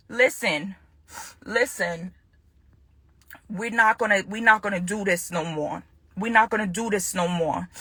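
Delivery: low and soft, firmly final; restrained firmness. Real, not acted. Woman telling her ex it ends here, quietly firm. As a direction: lay down the limit quietly, pitched low.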